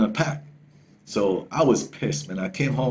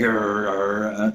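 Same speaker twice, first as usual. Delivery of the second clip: a growl imitating the dog's warning; imitated dog growl; 2 semitones lower, much slower than usual. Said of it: "start growling, man. Like".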